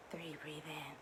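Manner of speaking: whispered affirmation on the in-breath; soft whispered mantra. Shown as a demonstration. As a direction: breathe the words out in a hush. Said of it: "guided breath affirmation".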